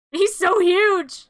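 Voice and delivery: high, loud, stretched-out amazement; amazed exclamation. Real, not acted. Recapper spots the creature in the lab, exclaiming amazed. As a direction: blurt it out, slowly and hugely impressed.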